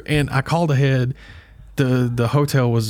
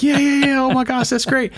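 much higher, bouncy mock glee; thrilled kid voice, much higher; imitating her excitement; 13 semitones higher than usual. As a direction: squeal it while skipping. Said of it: "skipping and jumping and like".

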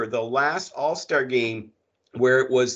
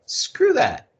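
high, loud exasperated rant; angry outburst; 14 semitones higher, 4 dB louder than usual. Real, not acted. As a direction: spit it out in disgust. Ranting about all-star picks.

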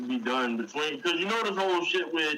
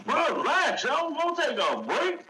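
frat bro; 12 semitones higher than usual. Acted. Telling Mox to chill.

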